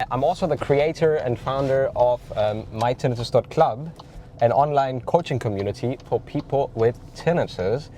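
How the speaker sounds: stuffy nose from a cold; nasal voice. Real, not acted. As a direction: talk through a blocked nose. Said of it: "sorry for my little nasal voice".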